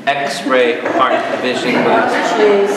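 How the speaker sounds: very slow, drawn-out joke title; playful slow reveal of a gadget name; mock announcement. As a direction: stretch out each word for comic effect. Joke naming his new glasses.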